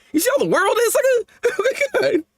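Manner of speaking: laughing. Real, not acted. Laughing at own rant.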